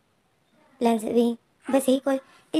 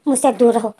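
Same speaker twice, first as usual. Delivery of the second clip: angry; 5 dB louder than usual. Acted. Angry quarrel, pushing away.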